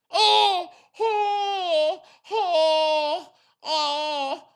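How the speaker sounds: hammed-up panicked oh-oh-oh; mock panic. Mimicking Phil's panic to the viewers, hammed up. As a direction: pretend to panic like Phil.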